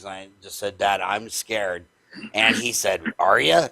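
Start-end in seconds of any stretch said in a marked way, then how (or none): 0.8-1.8 low, slow retold admission of fear; sheepish confession. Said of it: "my tail was between my legs". 3.2-3.7 delighted question, louder with a swooping rise; happy dad. Retold or imitated. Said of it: "And he's all happy".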